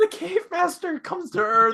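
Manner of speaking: squeaky voice cracking up very high. Explaining the cave master twist in a game, the speaker's voice cracking. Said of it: "I went full Shaggy in that one".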